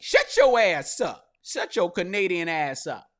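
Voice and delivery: loud, slow mock judge yelling at Tory; mock angry judge. Fed-up judge yelling at Tory in court, loud mock rant. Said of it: "And judge is like".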